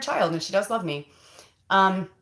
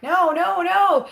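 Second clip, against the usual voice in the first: rising shouted no, higher and louder each time; emphatic refusal; 11 semitones higher, 6 dB louder, slower than usual. Retold or imitated. Refusing to give in to respected elders, a high shouted no. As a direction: burst out with a firm no, no, no. Pushing back on inner surrender.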